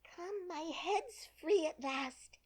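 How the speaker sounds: high, bright relief at being free; Alice cheering as her head pops free; delighted. A narrator's reading. Alice exclaims with delight. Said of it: "said Alice in a tone of delight".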